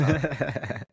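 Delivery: ordinary delivery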